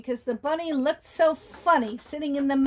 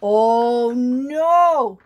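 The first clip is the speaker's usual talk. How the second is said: loud, wailing no no; bunny wailing no, louder; distraught bunny; 4 semitones higher, 6 dB louder, much slower than usual. Acted. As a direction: refuse in dismay. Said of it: "the Easter Bunny continued".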